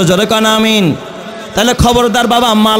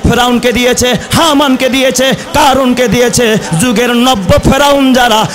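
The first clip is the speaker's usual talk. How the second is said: shouting; 3 semitones higher than usual. Real, not acted. Fiery sermon, naming tyrants.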